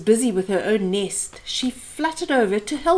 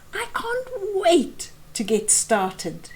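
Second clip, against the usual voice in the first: chirped; 8 semitones higher than usual. A narrator's reading. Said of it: "she chirped".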